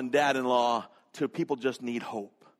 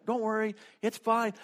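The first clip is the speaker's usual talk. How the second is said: reassuring; 8 semitones higher than usual. Retold or imitated. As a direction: imitate a lady calming a panicking man. Unhurried lady reassures frantic man.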